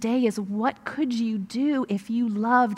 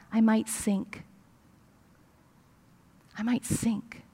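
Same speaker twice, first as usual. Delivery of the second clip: hushed, much softer, grandson's fearful murmur; under his breath; 7 dB quieter, slower than usual. Retold or imitated. Grandmother retelling her frightened grandson, said under his breath. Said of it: "he says under his breath".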